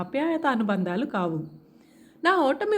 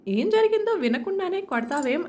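higher, sharp protective reproach; angry mother; 6 semitones higher than usual. Acted. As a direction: scold her for striking first. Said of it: "అంది కోపంగా".

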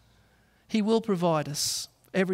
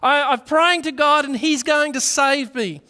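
high, loud call from the roof; calling back; 8 semitones higher, 7 dB louder than usual. Retold or imitated. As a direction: call back, sure of yourself. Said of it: "the man called back to him".

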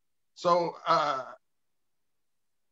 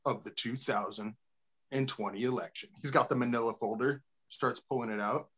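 Maury reveal; 4 semitones lower than usual. Retold or imitated. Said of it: "Maury's like".

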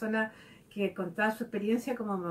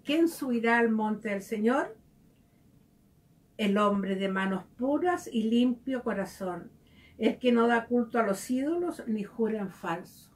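reading scripture. Acted. Reading the psalm.

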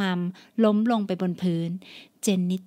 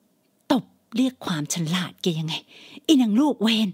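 angry mother; slower than usual. Acted. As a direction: scold her, spit out the last words. Mother scolding daughter.

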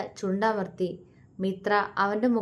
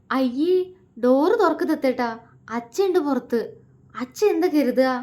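a little higher, nervous and hurried pleading; flustered plea; 4 semitones higher than usual. Acted. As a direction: fret like she's about to be caught. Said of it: "അവൾ വെപ്രാളത്തോടെ പറഞ്ഞു".

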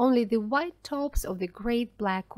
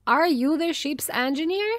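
raised voice, higher and louder; shouted question; 5 semitones higher, 5 dB louder than usual. A narrator's reading. Daniel shouts to the engineer over the engines, loud. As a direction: call it out over the storm.

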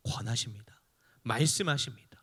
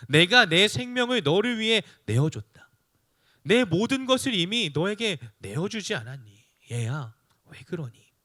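tender pleading father; 3 semitones higher than usual. Acted. God as a loving father asking his child, lightly voiced pleading. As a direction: start raised and earnest, end hushed on 얘야.

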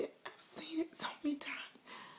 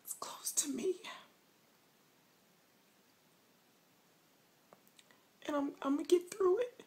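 snotty crying. Pretend. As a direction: fake sobbing, whispery and shaky. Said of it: "Y'all thought I was crying. Not".

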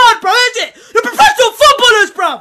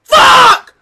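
angry swearing; 6 dB louder than usual. Real, not acted. Own goal by captain.

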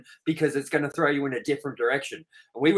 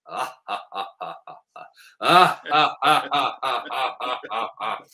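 mock creepy laugh; 3 dB louder than usual. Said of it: "through the handset going".

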